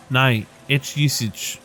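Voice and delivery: lightly voiced Dubliner; lyrical Irish accent. Rainbow sizing up a stranger, light Irish accent. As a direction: lilt it with a touch of Irish.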